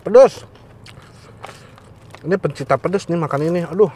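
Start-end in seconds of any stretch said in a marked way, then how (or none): 0.0-0.4 high, loud gasp of heat; tongue on fire from chili; mouth burning from spicy food. Real, not acted. Asli pedesnya nampol loh.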